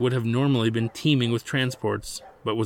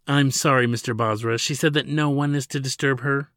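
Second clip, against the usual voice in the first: nervous receptionist; 4 semitones higher, 4 dB louder than usual. Acted. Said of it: "the receptionist repeated as she began to sweat".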